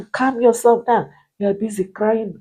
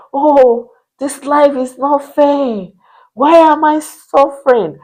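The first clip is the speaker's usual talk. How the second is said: higher, louder mock lament that fades at the end; imitating crying client; 3 semitones higher, 4 dB louder than usual. Coach retells a crying client's lament, higher and louder, then fading. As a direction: play the weeping client's complaint. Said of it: "She was crying".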